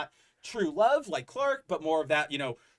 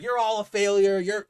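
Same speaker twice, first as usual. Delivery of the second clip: mock ranting; 4 semitones higher, 6 dB louder than usual. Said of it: "ranting, monologuing".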